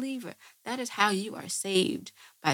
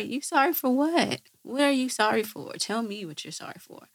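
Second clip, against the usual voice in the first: challenging demand; 4 semitones higher, 4 dB louder than usual. Acted. Challenging the mock apology.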